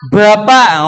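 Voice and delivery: "Bapak" with a heavy Javanese b; Javanese-style heavy B. Shown as a demonstration. Teacher teasing Javanese speakers, thick Javanese "Bapak". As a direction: Javanese accent, breath behind the first b. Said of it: "ngomong gitu ya".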